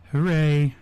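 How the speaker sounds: deadpan, unexcited cheer; sarcastic excitement. Real, not acted. Host feigning excitement at a returning wrestler, deadpan. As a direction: cheer with mock enthusiasm and no lift. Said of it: "overall excitement in my voice".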